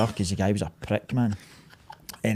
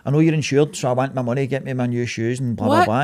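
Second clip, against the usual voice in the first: mildly pushy, raised-voice mimicry of a complaint; retold demanding customer; 4 dB louder, faster than usual. Customer demanding money for new shoes, mock insistent. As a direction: imitate an insistent customer, trailing into blahs. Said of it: "And they're, like, demanding".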